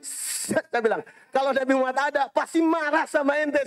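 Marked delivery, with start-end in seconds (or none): 1.3-3.6 retold scolding. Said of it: "Ustadz, jangan marah".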